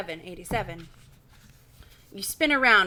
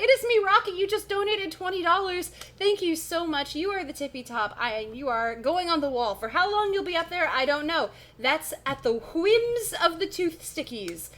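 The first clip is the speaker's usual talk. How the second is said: raised, put-on character voice; Rocky; 8 semitones higher than usual. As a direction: play the character thanking a donor. Thanks donor in character voice.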